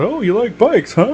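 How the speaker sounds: high, mock-sneering biker voice; menacing biker taunt. Bikers at a bar taunting him, a high mock sneer. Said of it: "and they were".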